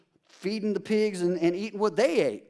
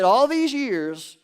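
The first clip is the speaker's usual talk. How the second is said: put-on older son's complaint; 4 dB louder, much slower than usual. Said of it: "He said".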